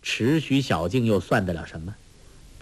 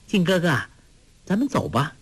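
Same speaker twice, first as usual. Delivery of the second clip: pleased with herself; 6 semitones higher, faster than usual. Acted. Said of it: "黄蓉极是得意".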